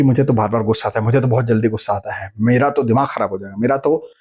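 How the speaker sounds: a touch of hammed-up temper; mock irritable complaint. Shown as a demonstration. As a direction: rattle off the grumbles quickly like a short-tempered person. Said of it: "तो आप बोलेंगे कि".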